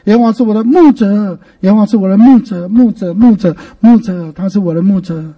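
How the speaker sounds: 牧者 swelling each time, then easing off; repeated heavy emphasis on 牧者; stress on 牧者. Shown as a demonstration. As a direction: hammer 牧者, settling at the end. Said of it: "或者大声的读".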